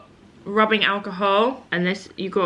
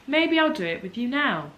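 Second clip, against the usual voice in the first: higher-pitched repeat; 6 semitones higher than usual. Real, not acted. Repeats the idea, warming to it.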